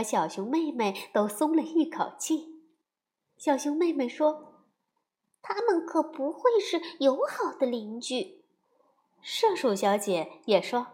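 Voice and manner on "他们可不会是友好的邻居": lightly voiced young cub; a touch of a little girl; little girl bear voice. Sister bear speaks.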